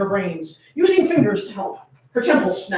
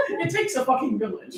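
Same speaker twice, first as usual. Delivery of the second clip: laughing quote; 7 dB quieter than usual. Retold or imitated. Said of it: "is what she said".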